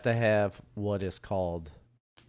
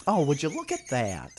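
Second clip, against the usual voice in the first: imitating; 4 semitones higher than usual.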